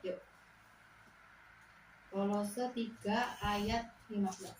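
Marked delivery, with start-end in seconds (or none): 2.1-4.6 the verse reference "Kolose tiga ayat lima belas" read out slowly, word by word; slow, deliberate reading of "Kolose tiga ayat lima belas"; slow announcing. Shown as a demonstration. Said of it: "Kita buka di Kolose".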